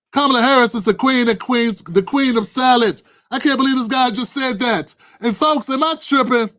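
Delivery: worked-up rant. Real, not acted. Streamer ranting to folks about Kamala, fired up. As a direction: rant at full steam.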